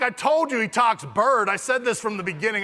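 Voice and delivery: hammed-up I-told-you-so; triumphant boast. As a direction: crow as if you never doubted it. Mock boasting after the ducks land.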